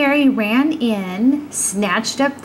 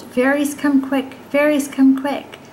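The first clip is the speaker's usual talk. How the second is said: mock calling out; 4 semitones higher than usual. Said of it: "did just as she was told".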